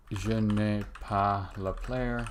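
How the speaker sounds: slow, deliberately bad schoolbook French; horrible French. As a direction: sound it out in clumsy French, slowly. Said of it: "I know that's horrible French".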